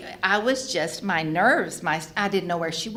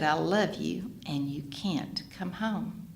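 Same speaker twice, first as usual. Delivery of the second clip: slow and softer, calm and firm; peaceful; 5 dB quieter, slower than usual. Retold or imitated. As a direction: say it gently, with total peace. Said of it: "I was so peaceful".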